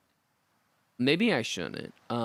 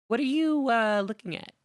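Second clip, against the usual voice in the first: goblin voice; 11 semitones higher, 4 dB louder than usual. Acted.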